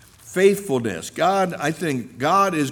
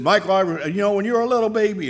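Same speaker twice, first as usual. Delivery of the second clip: put-on old lady; 7 semitones higher, 4 dB louder, much faster than usual. Old church lady speaking tearfully.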